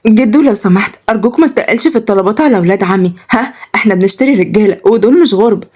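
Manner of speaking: gentle appeal with lively tune; coax, a touch imploring; pleading. Acted. Granddaughter begs grandfather to go easy on suitors, pleading. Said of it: "وياسمين قالت برجاء".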